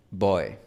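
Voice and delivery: put-on "boy" en inglés, oi terminando abierto; palabra inglesa. Shown as a demonstration. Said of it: "en inglés tenemos la palabra". ("boy" inglés)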